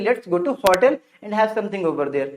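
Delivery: hotel said HAW-tl, open vowel; correct pronunciation. Shown as a demonstration. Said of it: "तो क्या बोलेंगे?". (hotel को "हॉटल" बोलें)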